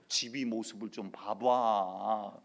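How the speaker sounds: slow teasing preacher drawl rising to a loud mock shudder; pastor's mocking manner. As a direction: tease the wife, lightly voiced. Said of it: "장경록 목사의 말투를 좀 빌어서".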